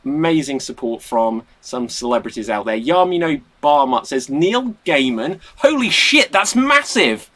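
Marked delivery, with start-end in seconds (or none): 4.3-7.3 excited. Retold or imitated. Reading an excited comment aloud.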